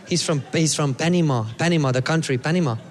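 low-pitched imitated Costa Rican accent; lightly accented Costa Rican guy; Costa Rican local. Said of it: "And the local guy".

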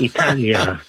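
"Italia" the Italian way, open ah in the middle; native pronunciation of Italia. Shown as a demonstration. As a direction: say "Italia" with an ee start, ee-TAH-lya. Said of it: "we say Italia".

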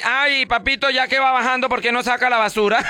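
voz aguda y mimosa de esposa; pídeselo con dulzura fingida; esposa pidiendo favor. Retold or imitated. Esposa responde al marido. (la esposa le pide al marido que saque la basura, aguda y mimosa)

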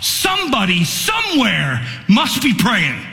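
preacher recalling weakness in the pulpit, swelling with fervor; building sermon fervor. Acted. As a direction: build each repeat toward the peak. Preaching at full force.

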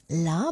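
"la" drawn out with emphasis, as in llama; emphatic long la. Shown as a demonstration. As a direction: lean on a long "la". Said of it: "but with more emphasis".

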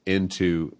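INTO set apart with a pause after; split-word wordplay. Shown as a demonstration. Husband breaks up the word intimacy, deliberate pause after INTO. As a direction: say "into" as its own word, then hold. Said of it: "the definition some have used of intimacy is".

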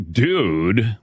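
"Dude" drawn out as a statement, without rising; no question mark. Shown as a demonstration. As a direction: stretch "Dude" into a plain statement. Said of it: "would not have a question mark".

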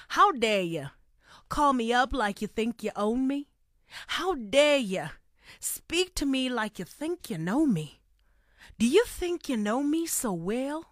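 put-on light South American accent on the lyrics; reciting lyrics in a South American accent. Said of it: "keep up my South American accent".

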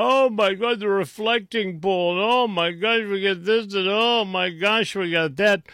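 breathless, high, gushing mock awe; a hammed-up, swooning imitation of the left; mocking gushing liberal. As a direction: squeal it like a starstruck fan. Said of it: "And the left has gone".

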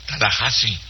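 Tallahassee said as "Tala-HA-si"; correct pronunciation. Shown as a demonstration. Host shows listeners the Florida city, Tallahassee said "Tala-HA-si". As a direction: say Tallahassee with "hassee" as "HA-si". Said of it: "Se pronuncia".

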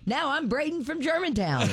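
high and giggling; laughing. Acted. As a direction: laugh through the line. Character in the parody ad.

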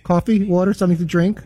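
lightly imitated flight attendant reciting the snack round; flight attendant's repeated offer. Flight attendant offering snacks down the aisle, mock repetitive refrain. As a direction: rattle off a cabin refrain on repeat, mildly mimicked. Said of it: "things that they have to repeat five thousand times".

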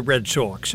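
Sox said as "Sawx"; drawn-out Sawx. Acted. Host teasing sports guest about the team, Sox as Sawx. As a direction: say Sox with a rounded aw vowel. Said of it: "now we spell it S A W X".

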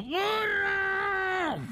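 very high squeaky shout of a tiny ant; ant calling for help. Acted. Drowning ant shouts to donkey, high squeaky yell. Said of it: "Y gritó".

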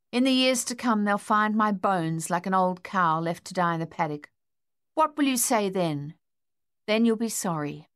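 put-on a sulking boy hurling guilt; defiant outburst. Boy's defiant outburst at mother.

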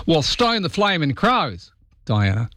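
mock outrage. Radio host teasing a listener who can't name Alf, hammed-up outrage. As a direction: ham up the disbelief like a bush larrikin.

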